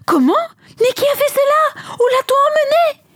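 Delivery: high, stunned questions; shocked disbelief. A narrator's reading. Disciples hearing the tomb is empty, high shocked questions. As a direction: ask it as if the news can't be true. Disciples hear Jesus is gone.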